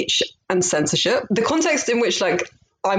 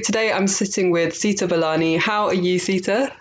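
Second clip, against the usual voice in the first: newscaster voice; 2 semitones higher than usual. Real, not acted. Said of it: "I'm speaking like a newscaster".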